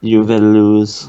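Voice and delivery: slow, low Russian threat; a light copy of the menace; mock Ivan Drago. Co-host echoing Drago, slow Russian menace. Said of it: "Ivan Drago".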